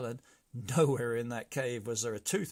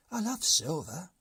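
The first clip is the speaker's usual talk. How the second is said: much higher squeaky brigand chorus; brigands' voice; 7 semitones higher, 7 dB louder than usual. A narrator's reading. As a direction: chime in, high. Brigand Giorgio dreamy.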